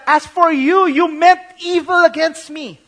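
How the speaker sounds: Joseph's loud, high accusation; voicing Joseph. Joseph accusing the brothers who sold him, high and loud.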